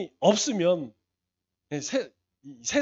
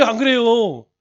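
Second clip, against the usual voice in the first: usual speaking voice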